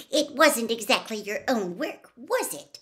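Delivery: a touch of stiff disapproval; prim, cool reproach with a rising tag; understated stiff disapproval; stiffly. A narrator's reading. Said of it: "she said stiffly".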